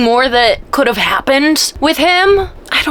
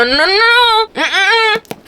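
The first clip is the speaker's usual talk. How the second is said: gushing; 11 semitones higher, slower than usual. Real, not acted. Gushing over the book's twist.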